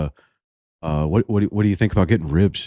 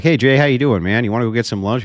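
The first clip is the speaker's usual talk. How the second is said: friendly call; 5 semitones higher, faster than usual. Retold or imitated. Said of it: "Call Jay and be like".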